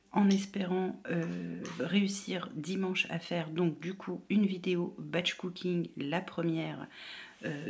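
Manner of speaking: hushed whisper. Real, not acted. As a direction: keep it hushed and low. Whispering while waiting.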